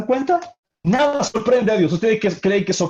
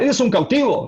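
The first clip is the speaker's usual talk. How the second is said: higher-pitched arrogant put-down; arrogant king; 5 semitones higher than usual. Acted. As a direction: put the captive in his place. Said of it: "la expresión de arrogancia del rey". (rey arrogante, con tono de superioridad)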